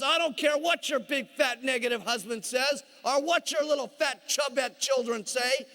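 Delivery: forceful comic tirade rising in pitch; emphatic, hammed-up telling-off; scolding coach. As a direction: order them about like a drill coach. Upline scolds wife on phone.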